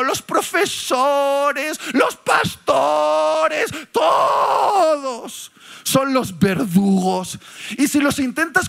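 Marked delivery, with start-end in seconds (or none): 0.0-7.4 emphatic preaching. Real, not acted. Listing blamed people, preaching loudly.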